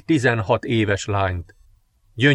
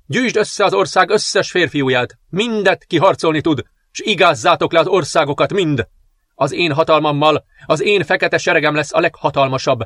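higher, imperious orders; commanding dark princess; 3 semitones higher than usual. Acted. Princess orders the general to raise her army, imperious.

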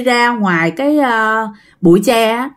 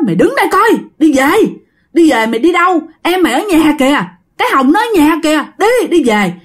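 urging him home; 5 semitones higher, faster than usual. Retold or imitated. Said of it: "mấy anh con của bác mới nói".

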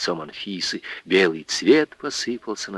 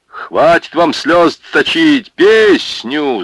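louder, slower bellow; roaring; 8 semitones higher, 5 dB louder, much slower than usual. Acted. Пётр Житов roaring at the weeping women, loud. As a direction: shout them out of their tears. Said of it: "заорал Пётр Житов".

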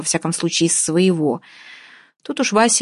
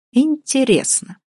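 "интересно" drawn out high and slow, falling; drawn-out high interest; 8 semitones higher, slower than usual. Acted. The man pretending to be a prosecutor, suspicious. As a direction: stretch the word in mock suspicion. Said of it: "прокурорским голосом".

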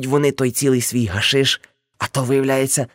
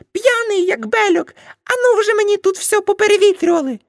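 scolding aunt; 5 dB louder than usual. Acted. Aunt Nastia yelling at the drunk smokers, high shrill scolding. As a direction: shriek at them like an outraged auntie.

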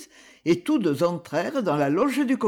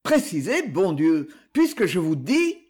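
irritated. Acted. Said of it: "demanda Lionel avec irritation".

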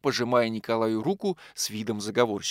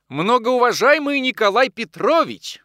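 high, loud, slow shouted greeting; shrill call; 11 semitones higher, 7 dB louder than usual. Acted. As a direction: bursts in calling out from the doorway. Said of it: "крикливый голос".

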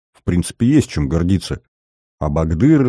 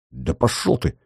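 embarrassed brush-off; 5 semitones higher than usual. A narrator's reading. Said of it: "стушевался Мостовой".

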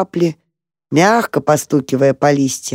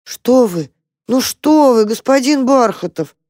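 high, anxious plea from a small mouse; startled and worried, reaching out; a mouse frightened for a weeping friend; 8 semitones higher than usual. A narrator's reading. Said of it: "испуганно проговорил там".

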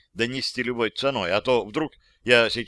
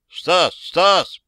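raised voice calling a friend's name; 6 semitones higher, 7 dB louder than usual. Acted. Calling his dead friend Stas, raised voice. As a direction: call out to him in the dark.

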